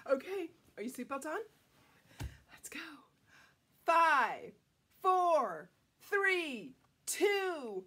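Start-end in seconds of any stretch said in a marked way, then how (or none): 3.8-7.8 countdown. Pretend. Countdown before blast off.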